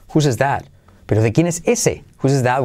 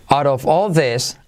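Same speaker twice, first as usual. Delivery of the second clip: slow model phrase; slower than usual. Shown as a demonstration. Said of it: "se convierte de como resuelve".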